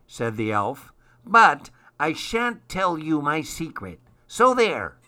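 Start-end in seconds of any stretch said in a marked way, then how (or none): 1.2-5.0 christmas elf. Acted. Elf refuses to share secret.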